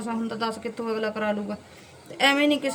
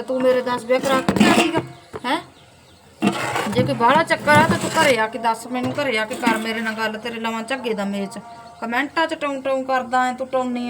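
louder, angry telling-off; angry scolding; 4 dB louder than usual. Real, not acted. Vlogger challenging the commenter to come to her home, angry and loud. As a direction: dare him to come say it to her face.

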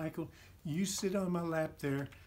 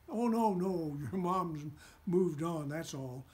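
counseling. Acted. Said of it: "Rusty counseled".

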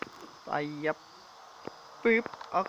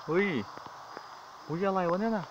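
higher, sudden yelp of surprise; startled; 5 semitones higher, 5 dB quieter than usual. Real, not acted. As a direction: caught off guard, jump a little. Startled by something in game.

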